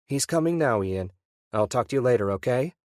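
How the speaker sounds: she is thrilled to hear from him; delighted wife. Acted. Wife voiced on phone.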